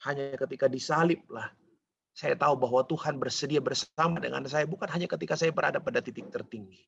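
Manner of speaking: ordinary talk, nothing marked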